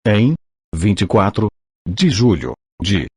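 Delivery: robotic text-to-speech reading; synthetic machine voice reading aloud. Real, not acted. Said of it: "com a utilização de voz sintetizada".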